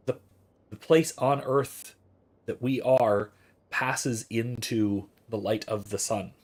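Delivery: slow, deliberate pedantic description of sunrise; mock stilted phrasing. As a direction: drag it out like a dry textbook, half-mocking. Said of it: "why would you talk like that?".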